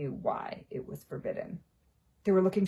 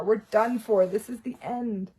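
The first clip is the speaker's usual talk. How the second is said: moaning; 4 semitones higher, 6 dB louder than usual. A narrator's reading. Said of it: "Ron moaned".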